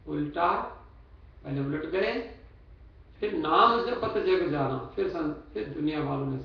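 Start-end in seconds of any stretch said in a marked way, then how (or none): 0.1-0.7 उल्टा alone with a rising end, then a pause; उल्टा set apart. Shown as a demonstration. Preacher splitting the verse in two, उल्टा set apart. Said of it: "दो शब्द". 3.3-4.9 slow, drawn-out नाम, falling to जाना; separate second phrase. Shown as a demonstration. Preacher showing what follows turning back, नाम slow and stressed. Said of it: "दो शब्द".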